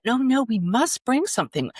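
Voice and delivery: high-pitched imitation of insistent guests; polite insistence. Dinner guests insisting to their host they bring something, mock insistence.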